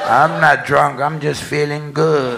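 put-on slow, slurred drunk begging; drunk pleading. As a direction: beg like a drunk caller. Drunk caller begging on phone.

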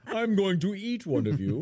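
mock-creepy cannibal line through a laugh; Hannibal Lecter. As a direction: menace the crowd like a cannibal, slowly. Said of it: "felt just like Hannibal Lecter looking around going".

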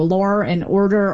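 "law and order" said as "lawr and order"; an R added to the end of law; linking R. Shown as a demonstration. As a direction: join law to and with an R. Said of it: "the linking R that you're talking about".

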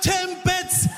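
high-pitched insistent repeat; exasperated customer. Retold or imitated.

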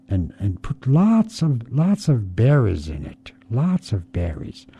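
Raven's voice. Acted.

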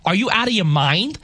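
put-on incredulous New York accent, rising at the end; animated East Coast accent. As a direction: challenge them like a disbelieving New Yorker. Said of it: "put a thick East Coast or New York accent on".

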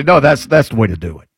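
ordinary delivery

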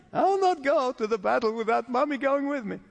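mock a scared little boy clinging to mommy; childish mock whimper; whiny child voice. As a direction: whine it like a child who won't go alone. Mocking Barak as childish.

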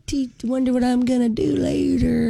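high, airheaded mock voice of a mom; lilting high mockery of someone oblivious. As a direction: imitate a mom driving along without a clue. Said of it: "my mom is that person who drives oblivious".

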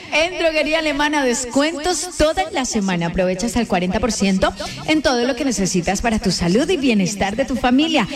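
upbeat on-air ad voice; sponsor ad read. Acted. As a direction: pitch the drugstore deal to listeners.

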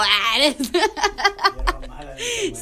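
hearty real laugh; burst of laughter. Real, not acted. Laughing at own joke.

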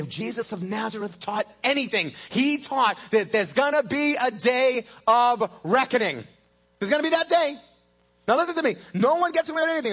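high, loud, fast warning; preaching at full force. Acted. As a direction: warn them all, loud and urgent.

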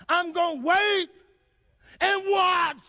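high, loud climax on watch; resolved shout. Acted. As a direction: build to a loud, high finish. Voicing psalmist's resolve, climax.

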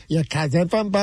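lightly put-on Boston accent; a hint of mock Boston in the vowels. Man retelling his restroom mimicry, mock Boston accent. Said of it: "like, the, the Boston accent".

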